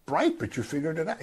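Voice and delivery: high, over-the-top impressed; mock gushing praise. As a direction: fake amazement at Peter's answer. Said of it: "Jesus doesn't say".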